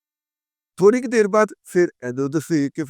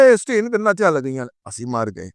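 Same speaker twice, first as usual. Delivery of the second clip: mock panic; 3 semitones lower than usual. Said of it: "انہوں نے کہا".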